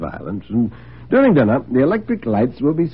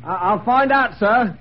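high, hesitant servant's reply; flustered butler; 11 semitones higher, 3 dB louder, slower than usual. Acted. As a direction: stammer a hasty, deferential answer. Flustered butler answers sharp master.

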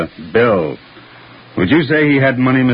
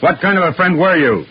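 pressing accusation, pitched up; insistent repeat; 5 semitones higher than usual. Acted. Detective repeating the question to a stalling witness, insistent. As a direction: repeat the question harder, higher.

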